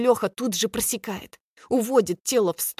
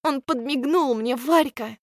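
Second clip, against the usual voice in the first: excited; 5 semitones higher than usual. Acted. Friend thrilled he winked.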